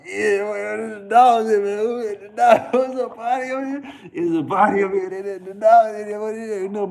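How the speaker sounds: high, loud, slowed mock alarm; hollering about dogs getting in; excited high yelling. Friends yelling at the stray dog, high and loud.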